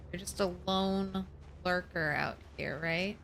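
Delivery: whisper shouting. Real, not acted. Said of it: "That's why I'm whisper, whisper shouting at the zombies".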